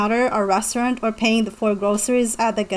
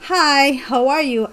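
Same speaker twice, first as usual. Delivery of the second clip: rote textbook greeting; 3 semitones higher than usual. Retold or imitated. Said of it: "They say".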